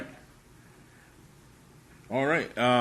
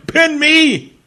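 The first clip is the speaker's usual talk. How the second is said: laughing; 8 dB louder than usual. Real, not acted. Laughing reply.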